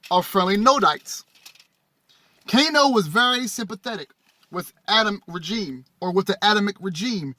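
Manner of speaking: measured, phrase-by-phrase read-aloud. Acted. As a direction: read the text out to an audience. Reads text aloud to audience.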